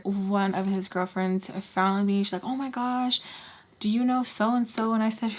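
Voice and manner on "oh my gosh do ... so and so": high-pitched, lightly voiced girlfriend; gushing girlfriend. Girlfriend asking about a former schoolmate, gushing. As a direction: imitate an eager acquaintance in a higher voice.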